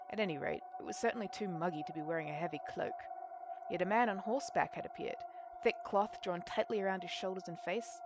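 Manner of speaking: measured, understated storytelling read; story narration. A narrator's reading. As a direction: narrate the scene like an audiobook. Reads the story aloud.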